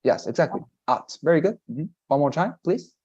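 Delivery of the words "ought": "At" as "aht" ending in a firm T; strong final T. Shown as a demonstration. Teacher confirming the student's attempt, strong final T. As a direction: model "At" with open ah and released T. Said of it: "the T sound is very".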